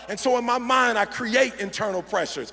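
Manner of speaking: rally the crowd at the climax; fired up preaching. Real, not acted.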